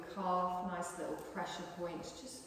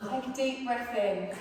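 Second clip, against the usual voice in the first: breath cue broken by a laugh; giggling through the instruction; 6 semitones higher, 8 dB louder than usual. Acted.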